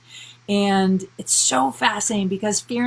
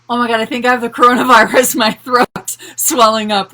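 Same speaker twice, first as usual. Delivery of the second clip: imitated panic; 3 semitones higher, 9 dB louder than usual. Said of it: "I'm just freaking out".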